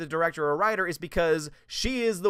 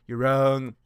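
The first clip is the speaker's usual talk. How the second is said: retold retort; 3 semitones lower, 6 dB louder than usual.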